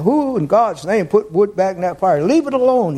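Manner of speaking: a touch of mock exasperation; mildly exasperated preacher. Preacher quoting overheated colleague at the stove, mildly exasperated. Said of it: "he's just hot, he said".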